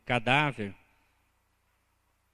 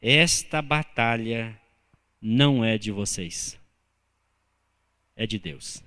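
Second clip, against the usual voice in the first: slow solemn emphasis; 6 semitones lower, slower than usual. Real, not acted.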